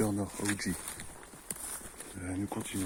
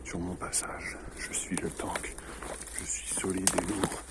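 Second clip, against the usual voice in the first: whispered mock-menacing boast; dramatic whisper; 2 semitones lower than usual. Gamer whispering he is the tank, mock dramatic. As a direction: hush it like a proud tank. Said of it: "je m'emporte".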